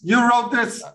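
high incredulous squeak; mock surprise at who wrote the joke; mock disbelief. Real, not acted.

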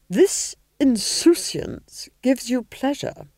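slow, high, seething Duchess; menacing hiss. A narrator's reading. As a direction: draw out the threat venomously. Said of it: "she hissed".

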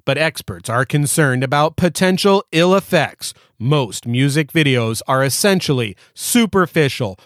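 lightly voiced old-school newsreader; 1985 news announcer voice. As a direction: read it like an eighties anchorman. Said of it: "in my nineteen eighty-five news announcer voice".

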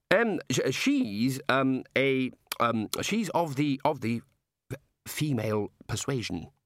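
halting, um-filled delivery; awkward stammer. Acted. Ponder telling the god she is female, stammering. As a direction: tiptoe round a delicate word.

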